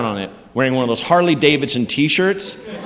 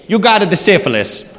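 put-on Italian accent; 2 semitones higher than usual. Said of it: "give me the worst news ... with that accent".

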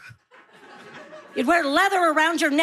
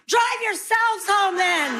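mock yell; 6 semitones higher, slower than usual. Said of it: "yelling at those kids going".

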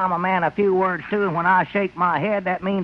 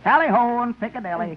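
fake British accent; 4 semitones higher than usual. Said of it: "your man has a rather peculiar accent".

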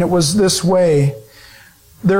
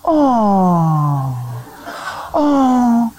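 imitated cooing. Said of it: "and then stop".

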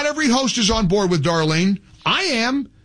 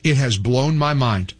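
lower, relaxed host-read ad pitch; chatty radio ad read in a lower voice; live ad read; 4 semitones lower than usual. Acted. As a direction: sell it like a friendly personal endorsement. Host reads live sponsor ad.

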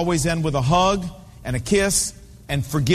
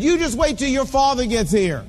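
higher-pitched scolding, mildly raised; retold yell; 4 semitones higher than usual. Mom to her son from the stands, mock scolding yell. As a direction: imitate a mother yelling a threat. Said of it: "she yelled back at him and said".

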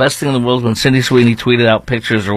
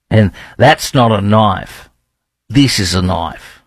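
Australian accent attempt; 2 semitones lower, slower than usual. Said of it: "my Australian accent".

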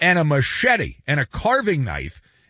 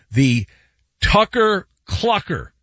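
Tucker, then Clucker, each set apart; said very slowly; 3 semitones higher, 3 dB louder than usual. Shown as a demonstration. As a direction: spell out Tucker Clucker with careful pauses. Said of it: "Say that very slowly".

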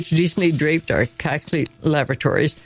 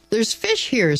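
excited scream; 7 semitones higher, slower than usual. A narrator's reading. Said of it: "screamed Joseph Coggs across the pond in great excitement".

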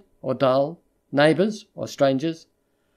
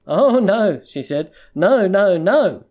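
frightened pleading; 3 semitones higher, 4 dB louder, slower than usual. Acted. She begs him not to leave.

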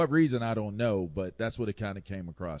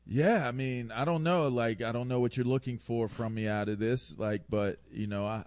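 explaining out of trouble; 3 semitones higher than usual. Acted. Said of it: "That's how I sounded when I was trying to explain myself out of trouble".

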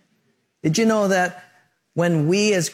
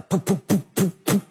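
engine sputter; 3 semitones higher than usual. Retold or imitated. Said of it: "you hear one engine sputter".

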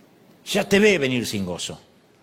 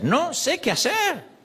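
slow helpless prayer; 11 semitones higher, slower than usual. Shown as a demonstration. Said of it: "esta es nuestra oración".

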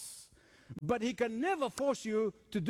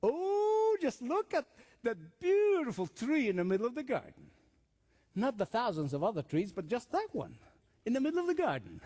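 tempting Satan. Acted. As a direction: coo over it enticingly as the tempter. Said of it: "What is Satan doing?".

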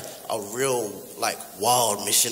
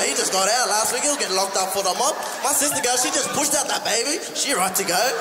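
high, cocky blokey voice, much higher; a tough mob man mouthing off, voice pitched way up; Prime Minister Buru; 8 semitones higher than usual. Acted. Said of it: "Prime Minister Buru, how will you respond".

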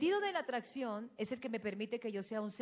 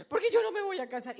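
put-on crying little girl; 7 semitones higher, 6 dB louder, faster than usual. Crying daughter voiced again.

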